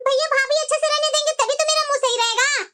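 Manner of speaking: sulky, indignant grievance; angry complaint. Acted. Sister complains to her brother about his wife, angry. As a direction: complain crossly about a relative. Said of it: "इतना गुस्सा क्यों है?".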